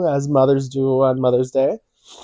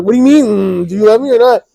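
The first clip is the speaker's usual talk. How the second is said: high, loud mock demand; mock indignant; 6 semitones higher, 4 dB louder, faster than usual. Uncle playfully demanding his nephew say he loves him, high and loud. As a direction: press the kid playfully for an answer. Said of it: "I was like".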